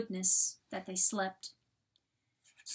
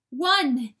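loud, higher desperate plea; desperate begging; 5 semitones higher, 10 dB louder than usual. A narrator's reading. Coyote begging John to understand, nearly desperate. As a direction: beg with rising desperation. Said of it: "begged Ferric, nearly desperate".

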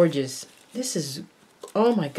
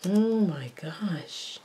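whisper; 5 dB quieter, much slower than usual. Real, not acted.

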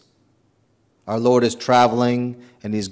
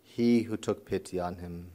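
formal, measured scripture reading; gospel reading. Real, not acted. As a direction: read the gospel to the congregation. Reads the gospel aloud.

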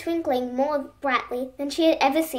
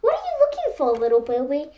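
hooting owl voice; faster than usual. Acted. Owl voice from the dark.

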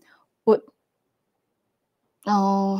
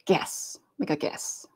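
whispered, softer "Guess. Make a guess."; teasing whisper; 6 semitones lower, 9 dB quieter than usual. Acted. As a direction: breathe it quietly to tease the viewers. Teasing viewers about an object.

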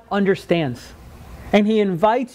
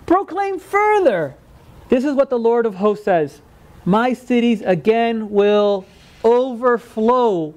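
preacher's proclamation; slower than usual. A narrator's reading. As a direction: stretch the verse out as a grand decree. Builds into proclaimed scripture.

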